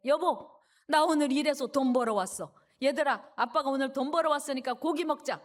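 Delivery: loud, happy homecoming announcement; proud calling out. Acted. Worker home with wages tells wife and children, proudly calling out. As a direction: call the good news out to the family.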